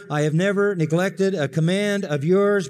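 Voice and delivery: loud resentful insistence; older son defending himself to father; bitter boast. Acted. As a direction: insist on your own righteousness. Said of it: "It's bitter".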